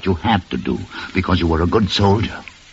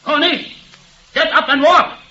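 rising insistence; slower than usual. Acted. Doctor pushes, rising.

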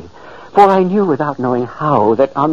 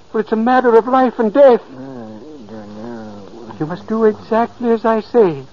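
commanding; 4 semitones higher than usual. Acted. Ghost commanding sleeper.

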